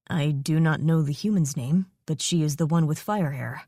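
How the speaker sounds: a calm dragon explaining the bond; solemn, possessive dragon; dragon mate voice. Acted. Dragon voice speaks in her mind.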